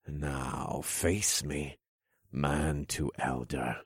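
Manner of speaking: slow, soft, mocking villain voice; sly villain king. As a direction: purr it out like a smug king.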